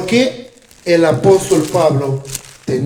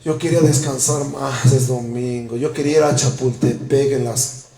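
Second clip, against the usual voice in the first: lazy grumbling; 4 semitones lower than usual. Retold or imitated. Lazy churchgoer voiced.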